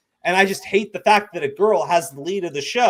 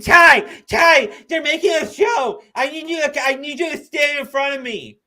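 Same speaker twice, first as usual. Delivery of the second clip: mock shout; 8 semitones higher, 4 dB louder than usual. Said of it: "showing up to your house and going".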